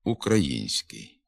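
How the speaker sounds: «український» slow, н softened before с. Shown as a demonstration. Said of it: "Візьмімо слово".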